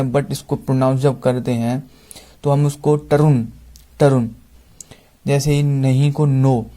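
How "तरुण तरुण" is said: तरुण with retroflex ट, said carefully; "तरुण" as the IPA shows it, ʈəɾun; English pronunciation of तरुण. Shown as a demonstration. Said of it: "तरुण को अगर हम English में pronounce करेंगे". (अंग्रेज़ी उच्चारण में "तरुण")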